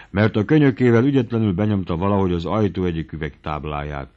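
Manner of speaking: plain reading voice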